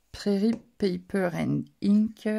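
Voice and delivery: English name said slowly with a strong French accent; self-mocking French accent on an English name. Real, not acted. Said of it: "avec mon superbe accent anglais".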